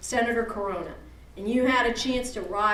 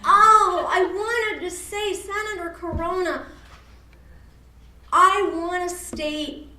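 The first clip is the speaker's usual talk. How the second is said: sincere wish. Retold or imitated. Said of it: "what you wish you said".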